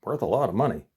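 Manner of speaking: lightly voiced frog offering collateral. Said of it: "And he says".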